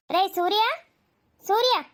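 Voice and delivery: mother summons the son across the house; calling out. Acted.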